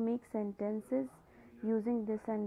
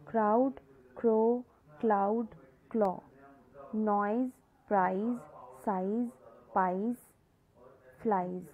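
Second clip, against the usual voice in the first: loud clear readout; 3 dB louder, much slower than usual. Shown as a demonstration. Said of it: "Say aloud".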